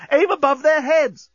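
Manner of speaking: very high, drawn-out shout of alarm; alarmed yell. A narrator's reading. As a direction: yell a desperate warning, stretching the words. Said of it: "yelled Corporal Inchby Wiglet in alarm".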